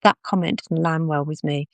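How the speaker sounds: calm, even and reasonable, no edge at all; a calm, reasonable tone that only gently holds a boundary; quiet, calm, reasonable. Shown as a demonstration. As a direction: say it gently and reasonably so nothing escalates. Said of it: "quiet, calm, reasonable voice".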